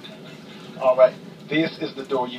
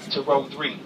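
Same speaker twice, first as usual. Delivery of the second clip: with attitude. Retold or imitated. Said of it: "swear I have an attitude".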